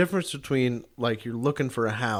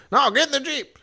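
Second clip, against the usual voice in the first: pitched-up, emphatic command; insistent shouted order; 14 semitones higher, 4 dB louder than usual. Retold or imitated. Fred overrules taking the truck, insistent high shout. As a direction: overrule them with a high holler.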